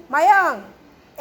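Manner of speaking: patient drawn-out call; slow drawn-out call. Real, not acted. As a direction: stretch the name very slowly, falling. Teacher calls the child again.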